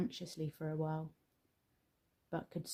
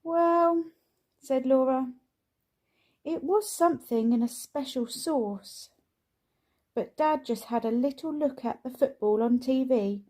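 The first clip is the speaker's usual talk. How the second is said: put-on higher, louder young girl; girl's voice; 6 semitones higher, 6 dB louder than usual. A narrator's reading. Laura passing on dad's message, higher girl voice. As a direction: tell it like an eager daughter. Daughter explaining burnt lunch.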